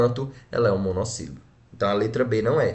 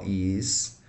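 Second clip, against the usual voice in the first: "história" split into his, tó, ria; separado em sílabas; 2 semitones lower, 5 dB quieter than usual. Shown as a demonstration. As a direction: pause between each syllable of "história". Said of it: "eu separo assim". ("história" pausadamente, sílaba por sílaba)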